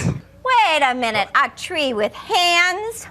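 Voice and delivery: suspicious. Acted. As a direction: draw it out in disbelief. Suspicious questioning of wolf.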